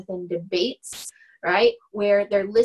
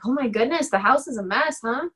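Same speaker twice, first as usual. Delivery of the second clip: light, rising, offhand comment; casual remark; 3 semitones higher than usual. Retold or imitated. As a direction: toss it off innocently with a rising end. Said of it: "they say it exactly like that".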